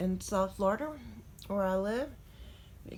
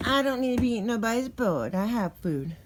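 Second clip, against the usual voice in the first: louder, higher cat's-voice reply; voicing the cat; 3 semitones higher, 5 dB louder than usual.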